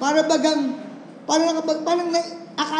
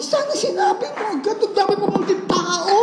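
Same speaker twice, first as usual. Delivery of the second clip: mock annoyed; 7 semitones higher than usual. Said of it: "Nagalit ako sa babae".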